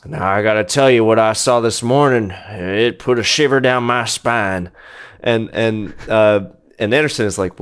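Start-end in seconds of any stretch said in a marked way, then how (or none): 0.0-4.7 a wise elder sharing an ominous tale; old monkey James. Acted. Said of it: "He says".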